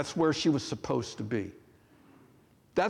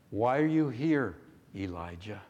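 questioning tone; 3 semitones lower than usual. Acted. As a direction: ask it firmly, then soften on the name. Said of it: "Listen to the tone".

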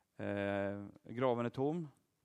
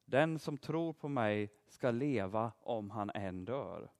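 slow, lower, solemn words of promise; solemn quotation; 3 semitones lower, slower than usual. Retold or imitated. Preacher quoting Jesus to children, slow solemn promise. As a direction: lay each phrase down slowly and gravely. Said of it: "Han säger så här, lyssna nu".

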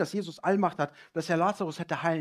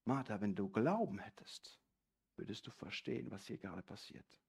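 gentle correction; 5 semitones lower, 9 dB quieter than usual. Acted. Jesus voiced gently correcting Martha.

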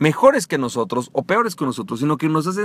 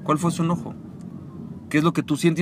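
lowered emotional state; 5 dB quieter than usual. Shown as a demonstration. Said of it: "bajas el estado emocional".

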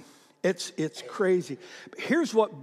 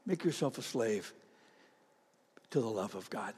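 softer repeat; 8 semitones lower, 11 dB quieter than usual. Acted.

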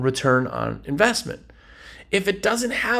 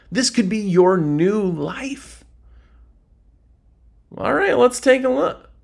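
eager salesman; 4 semitones higher than usual. Acted.

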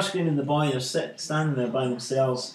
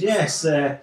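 smug; 3 dB louder than usual. Retold or imitated. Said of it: "smug as anything".

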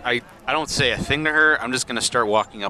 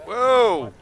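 sudden high amazed whoa; surprised whoa; 12 semitones higher, 4 dB louder than usual. Real, not acted. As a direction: gasp it out, thrilled by the roll. Big roll surprises player.

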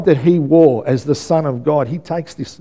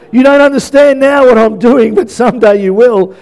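Jesus voice; 8 semitones higher, 5 dB louder than usual. Acted. Jesus voiced, raised and different.

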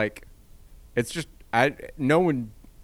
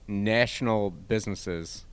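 Midwestern accent; slower than usual. Real, not acted. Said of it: "it's my Midwestern accent coming out there".

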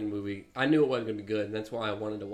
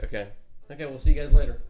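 louder, higher breezy farewell; mock-cheery neighbor calling goodbye; 3 semitones higher, 11 dB louder, much faster than usual. Acting out the neighbors leaving, in a loud, higher, cheery farewell. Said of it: "It'd be like".

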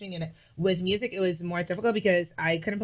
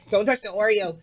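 firm warning; 3 semitones higher, 5 dB louder than usual. Retold or imitated. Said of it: "You will see".

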